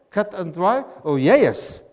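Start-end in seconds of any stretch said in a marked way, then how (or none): 1.2-1.8 loud, drawn-out Southern "yeah, yes"; Southern accent. Shown as a demonstration. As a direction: break yes into two Southern syllables. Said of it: "which is more fun to say".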